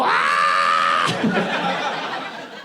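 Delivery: long, sustained mock rock scream; hammed-up held scream; rock singer's scream. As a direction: imitate a hard rock vocalist's drawn-out wail. Imitates rock singer's opening scream.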